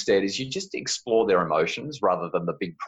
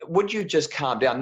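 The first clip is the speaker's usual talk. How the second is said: sharp; 6 semitones higher than usual. Retold or imitated. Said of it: "they don't say it calm".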